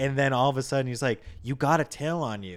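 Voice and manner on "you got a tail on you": put-on scream, kept small and held back. Retelling a movie scene where a character screams: imitating a scream. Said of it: "he just screams at him".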